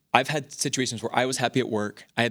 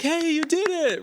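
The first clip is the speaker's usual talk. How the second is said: applauding; 4 dB louder than usual. Retold or imitated. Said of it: "start applauding".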